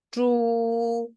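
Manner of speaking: 쭈 high, long and level; word reading in tone. Shown as a demonstration. Teacher reading a word for students, level 쭈. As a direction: stretch 쭈 on one high pitch. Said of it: "제가 한번 읽어볼게요".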